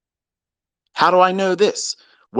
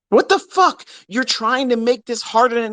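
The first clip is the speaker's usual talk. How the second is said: incredulous outburst; 8 semitones higher than usual. Real, not acted. Ranting at the spouse story.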